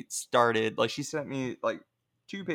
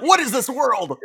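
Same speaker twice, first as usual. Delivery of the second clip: put-on baby voice; 11 semitones higher, 5 dB louder than usual. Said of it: "You're like".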